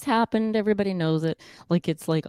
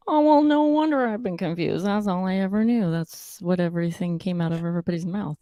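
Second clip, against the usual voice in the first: mock realization; 3 semitones higher than usual. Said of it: "I'm like".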